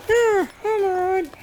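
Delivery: very high squeaky reply; squeaky voice for the soldier. Pretend. Gamer voicing the hurt soldier in a high squeak. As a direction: answer as a tiny squeaky soldier.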